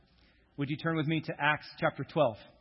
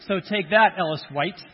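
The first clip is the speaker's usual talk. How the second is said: mock gloat; 2 semitones higher, 6 dB louder than usual. Mock triumph over guest's accent.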